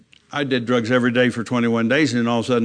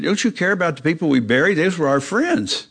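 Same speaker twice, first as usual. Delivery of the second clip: higher, pleading with a hint of tears; retold tearful plea; 5 semitones higher than usual. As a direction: beg your friends, close to tears. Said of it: "And then I started to cry".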